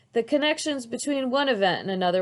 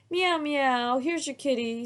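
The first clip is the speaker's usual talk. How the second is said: purring kitty; 6 semitones higher than usual. A narrator's reading. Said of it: "Samantha purrs".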